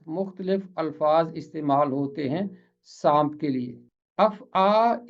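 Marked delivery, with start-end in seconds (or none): 4.2-5.1 अफ़आ as af-aa, ending on open "aa"; pronunciation by analogy. Shown as a demonstration. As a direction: say अफ़आ in two syllables with a long final "aa". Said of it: "इसी तरह पढ़ते हैं जैसे".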